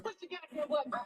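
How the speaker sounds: breathy whispered nudge; mock whisper at the viewers; whispered plea. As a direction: whisper it like a secret push. Urging viewers to hit like.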